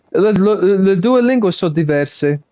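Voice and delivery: quick, lively Italian with a bit of attitude; switching to Italian to show how he sounds in it; speaking Italian. Shown as a demonstration. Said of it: "So that's me now speaking Italian".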